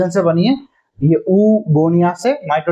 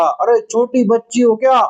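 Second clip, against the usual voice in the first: mildly raised, higher-leaning mock yell; mock shouted scolding; 3 semitones higher than usual. Universe scolds the oocyte in a mock yell. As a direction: scold like a half-hearted shout. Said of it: "जोर जोर से चिल्लाकर इससे कहा".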